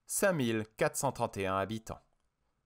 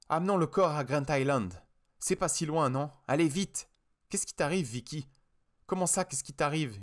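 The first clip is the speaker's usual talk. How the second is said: shouting; 5 semitones higher than usual. Acted. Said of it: "hurla-t-elle".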